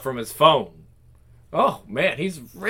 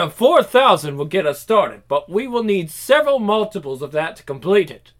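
put-on German accent. Bunsen naming the factory's cost, in a German accent. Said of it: "In a strong German accent".

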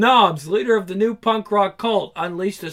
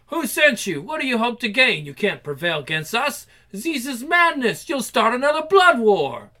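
raised, menacing vampire voice; lightly voiced comic vampire; 4 semitones higher, 4 dB louder than usual. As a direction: confront the intruder coldly. Vampire confrontation.

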